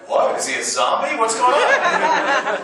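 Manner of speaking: a comic baffled gasp building up; mock shock. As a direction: act stunned at the news. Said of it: "And I went".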